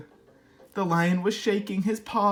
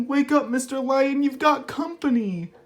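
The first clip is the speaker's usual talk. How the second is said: timid mouse; 4 semitones higher, 3 dB louder than usual. Acted. Mouse politely wakes the lion.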